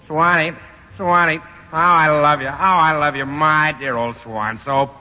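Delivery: Impression of an old-time singer. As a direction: sing it like an old-time crooner. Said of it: "do that imitation of Jolson".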